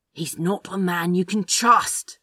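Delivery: understated urgent warning. A narrator's reading. Crowley warns Aziraphale against trusting Gabriel, urgent. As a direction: warn with a touch of urgency. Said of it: "Crowley said urgently".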